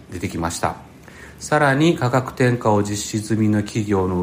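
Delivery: measured newsreader delivery; news read. Acted. Reads the news article. (ニュース原稿を読む口調)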